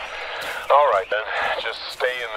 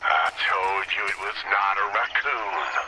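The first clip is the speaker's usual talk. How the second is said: demonic voice, sounds just like a demon. In a game scene, a character insists it was no raccoon, demonic voice. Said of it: "that guy's voice 100% sound like a demon".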